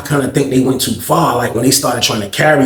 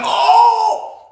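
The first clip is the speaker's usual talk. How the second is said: crowd gasp. Retold or imitated. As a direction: react like the whole pod. Crowd reacting.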